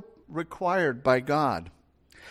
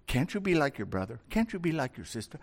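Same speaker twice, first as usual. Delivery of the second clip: nagging parent; 3 semitones lower, 8 dB quieter, faster than usual. Retold or imitated. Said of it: "worst thing you can say as a parent".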